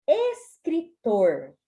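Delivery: escritor drawn out, final R sounded; slow escritor. Shown as a demonstration. Teacher dictating escritor slowly. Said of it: "tem o R no final".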